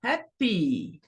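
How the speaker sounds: happy as HAP-py, first syllable strong; stress on first syllable. Shown as a demonstration. Teacher demonstrating the adjective rule, first syllable stressed. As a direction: land on HAP, let py fall. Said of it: "tem na primeira sílaba".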